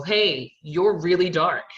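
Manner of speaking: a player loudly singling out a darker teammate, mocking; mock teammate remark. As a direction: parody the teammate blurting it out. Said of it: "pointing out to every".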